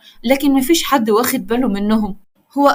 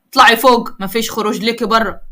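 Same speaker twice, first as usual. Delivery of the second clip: sharp order; 3 dB louder than usual. Acted. Brother ordering sister upstairs.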